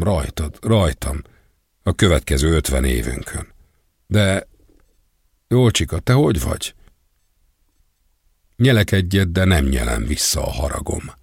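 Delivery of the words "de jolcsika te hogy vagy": unsuspecting. Acted. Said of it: "folytatja gyanútlanul".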